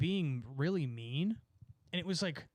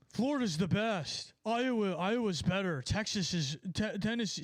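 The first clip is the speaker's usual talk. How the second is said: mocking state-proud people; 5 semitones higher than usual. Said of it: "Yep, here it goes".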